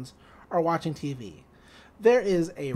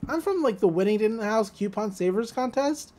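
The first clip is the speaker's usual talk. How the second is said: light mock sweepstakes-guy cheer; announcer-ish winner man; 3 semitones higher than usual. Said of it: "he's like".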